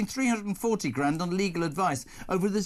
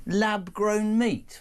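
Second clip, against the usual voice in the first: imitating producer; 3 semitones higher, 3 dB louder, much slower than usual. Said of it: "your producer went".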